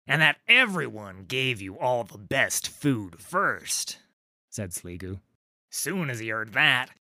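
rough troll gossip, pitch jumping on king; grumbling northern troll. Acted. Sligu telling Trundle about Yeru, grumbling. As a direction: complain about the upstart king.

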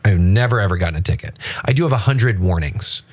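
eager, insistent bragging; boastful driver voice. Retold or imitated. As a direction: protest too much, quickly. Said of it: "he said".

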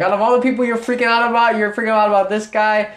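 high, quick imitation of a baffled friend; mock incredulity. Friend questions the other's freak-out over a celebrity, mock incredulous. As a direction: pitch it up in playful disbelief.

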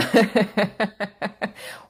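high rapid giggle; real laughter. Real, not acted. Laughing at their own story of the man, real giggle. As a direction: burst out giggling.

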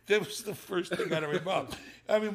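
usual speaking voice

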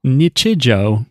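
slow "Nichijou" as NITCH-ih-joh; drawn-out "Nichijou", starting like "nitch"; TikTok lady's mispronunciation. Shown as a demonstration. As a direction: copy the misread "Nichijou" with short vowels. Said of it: "she would probably say".

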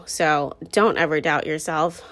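slightly breathless, slow and winded; out of breath. Real, not acted. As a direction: talk while catching your breath. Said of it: "trying to catch my breath".

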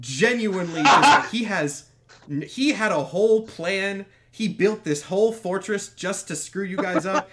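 talking through laughter; laughing. Real, not acted. GM to players, laughing through it. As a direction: laugh your way through the lines.

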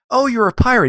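put-on high-pitched old lady greeting. Old lady greeting a trick-or-treater, high and put-on. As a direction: coo it high as the lady at the door. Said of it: "Old lady answers the door. She goes".

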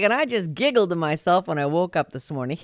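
laughing through the words; giggling. Real, not acted. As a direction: giggle it out, tickled. Giggling at a fan email.

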